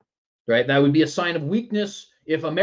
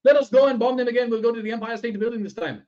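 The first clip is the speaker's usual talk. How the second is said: high-pitched, hammed-up Al Qaeda accent; bad mock foreign accent; 9 semitones higher, 4 dB louder than usual. Host mimicking gleeful Al Qaeda plotters, bad mock foreign accent. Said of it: "a little bit of an accent".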